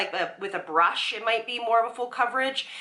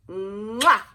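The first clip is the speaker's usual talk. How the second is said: blown kiss; 5 dB louder than usual. Real, not acted. Blowing a kiss goodbye.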